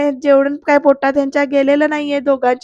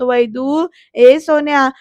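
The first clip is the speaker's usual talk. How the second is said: raised, coaxing retold call; fatherly calling out; 3 dB louder, slower than usual. Father calling his upset daughter, concerned calling out. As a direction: call to the child through a door. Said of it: "बाबा पण हाक मारतात".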